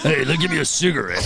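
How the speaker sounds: lightly voiced old Russian lady asking for a smoke. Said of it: "you sound like an old Russian lady".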